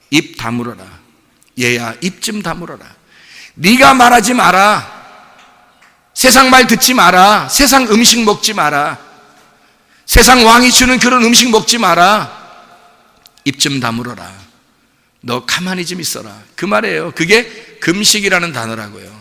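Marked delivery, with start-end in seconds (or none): 0.1-2.8 low, soft command to be silent; lightly voiced parent, soft and low; gentle hushing order. Preacher voicing God to a child, low soft hushing. 3.5-12.3 raised, emphatic prohibition; firm command. Acted. Preacher voicing God's command to the faster, firm raised command. 13.5-16.3 low, soft command to keep still; gentle hushing order. Acted. Preacher voicing God to a child, low soft hushing.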